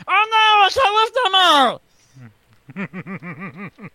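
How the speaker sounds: high, strained alien cry; Stitch impression. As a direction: squeal like Stitch overwhelmed. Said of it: "You actually do a very good Stitch impression".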